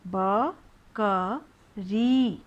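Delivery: ब क री very slow, री held long; sounded out slowly. Shown as a demonstration. Teacher sounds out बकरी for pupils. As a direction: spell out ब क री, stretching री. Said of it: "बनाना है हमें बकरी".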